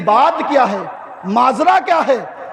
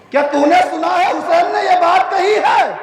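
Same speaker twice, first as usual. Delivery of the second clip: sharper repeat; 5 semitones higher than usual. Acted. Father repeats question sharply.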